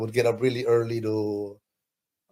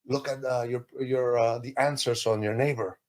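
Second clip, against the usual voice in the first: little voice; 5 dB quieter than usual. Retold or imitated. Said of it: "I heard a little voice".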